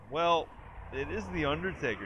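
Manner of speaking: deadpan matter-of-fact imitation; dry, unimpressed delivery; nonchalant, dry. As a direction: toss it off like it's obvious. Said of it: "very sort of nonchalantly goes".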